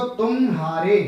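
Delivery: तुम्हारे with a held म, then हारे; split at the join. Shown as a demonstration. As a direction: sound out तुम and हारे separately in तुम्हारे. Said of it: "तुम और हारे का संगम".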